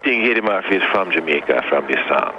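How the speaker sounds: put-on playful Jamaican accent. Teasing the host about being Jamaican, in a Jamaican accent. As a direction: joke in a light Jamaican accent. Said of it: "let me hear your best Jamaican accent".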